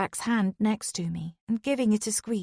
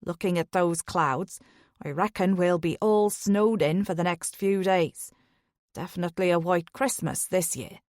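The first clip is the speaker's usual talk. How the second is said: Irish lilt; 3 semitones lower than usual. Acted. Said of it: "His Irish lilt".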